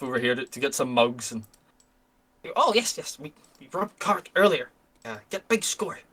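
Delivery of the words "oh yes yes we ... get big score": boastful goblin. Acted. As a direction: brag like a simple goblin about the big haul. GM voices goblin NPC.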